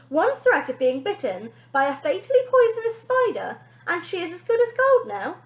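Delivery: loud, bright TV presenter voice; celebrity nanny signing off on TV; Wonder Nanny on TV. Acted. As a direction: address the camera like a celebrity.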